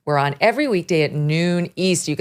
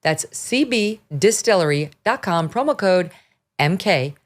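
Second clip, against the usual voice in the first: smooth host-read ad; steady, friendly ad read. Acted. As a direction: sell it like a podcast sponsor spot. Reads an ad.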